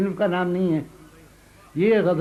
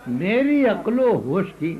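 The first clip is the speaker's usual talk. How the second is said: poem recital. Acted. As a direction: savour each line for the audience. Recites second qita.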